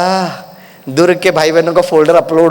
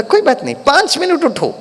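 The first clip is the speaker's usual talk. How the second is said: lightly voiced kind sister, a bit higher; tender coaxing, pitched up; gentle, loving reassurance; 8 semitones higher than usual. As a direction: soothe him like a caring elder. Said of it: "इतनी प्यार से वो बोलती थी ना".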